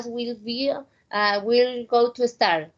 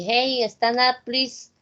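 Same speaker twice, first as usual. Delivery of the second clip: good energy. Shown as a demonstration. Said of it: "With a good energy".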